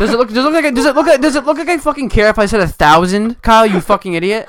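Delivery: mock fury, laughing; laughing mock rant. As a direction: yell at him while cracking up.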